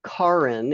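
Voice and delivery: "Karin" said KAR-in with an open "ah"; name pronunciation shown. Shown as a demonstration. Host teaching attendees the guest's name, "Karin" with an "ah". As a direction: say "Karin" clearly as KAH-rin. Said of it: "it's pronounced Karin".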